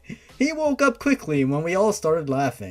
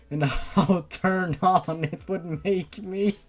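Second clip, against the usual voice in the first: embarrassed laughing. Real, not acted.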